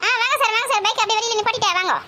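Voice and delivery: high-pitched calling into the phone; loud phone voice. Acted. Asking sir where he is on poor signal, loud phone voice. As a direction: pitch it up as if the line is bad. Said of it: "அதான் கத்தி கத்தி பேசுறேன்".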